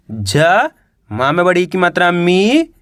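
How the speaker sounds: teacher's letter-by-letter reading, "ज" held alone, "मी" stretched and rising; "ज", pause, then a long rising "मी"; sounding out letters. Shown as a demonstration. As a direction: spell it out piece by piece, drawing out "मी". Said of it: "एक अक्षर का उच्चारण करके".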